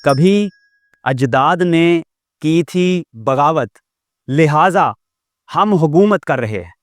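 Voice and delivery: slow, measured poetic recitation; slow Urdu verse recital, each word held; recited couplet. Shown as a demonstration. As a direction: recite the verse slowly, savouring it. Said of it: "شعر سماعت کیجیے".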